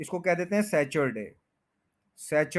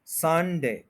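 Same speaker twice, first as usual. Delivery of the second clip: संडे with a drawn, stressed SUN; 2 semitones higher, much slower than usual. Shown as a demonstration. Teacher modelling Sunday, संडे stressed on सन. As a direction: lean on सन in संडे, let डे fall. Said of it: "सन है उसके ऊपर अच्छा stress".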